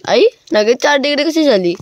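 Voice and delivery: high, shocked disbelief at the cold; surprised. Real, not acted. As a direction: exclaim in disbelief. Shocked at four degrees.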